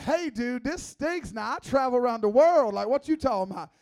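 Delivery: playful put-out objection; mock indignation. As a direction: act out an offended friend complaining. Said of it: "at first I was like".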